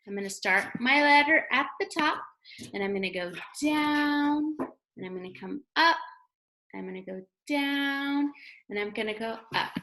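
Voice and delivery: sing-song step by step; teacher demonstrating. Shown as a demonstration. Teacher talks kids through writing W, steady step-by-step. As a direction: narrate each stroke as you draw. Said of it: "I'm going to show you how we write".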